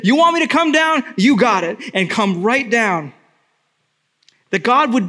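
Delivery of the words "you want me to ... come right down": high, quick mock retort; Jesus answering. Jesus imagined answering the mockers, light retort. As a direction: toss back a breezy comeback. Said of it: "He could have heard the derision and said".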